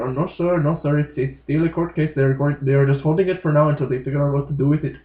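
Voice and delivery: put-on a half-hearted Indian accent, polite shopkeeper; awful Indian accent. Head shop clerk explaining the ban, badly imitated Indian accent. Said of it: "that was an awful, awful accent".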